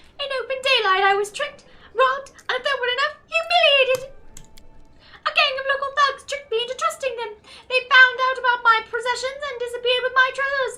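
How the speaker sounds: unusually high-pitched, shrill, very loud voice. Narrator reads a robbed man's plea for help: unusually high-pitched voice. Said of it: "speaks to you in an unusually high-pitched voice".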